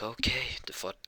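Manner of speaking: whispered inner voice; whispered thought. Acted. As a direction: breathe the thought without voice. Characters' unspoken thoughts.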